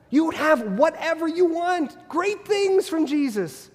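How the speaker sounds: oversell the dream like a salesman, then drag it out; mocking promise. Preacher mocks the prosperity promises, hammed-up and high.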